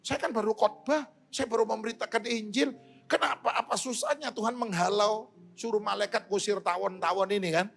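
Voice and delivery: high-pitched, aggrieved plea to God; mock-weepy protest, no sobbing; retold tearful complaint. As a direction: imitate someone complaining through tears. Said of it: "Dia nangis".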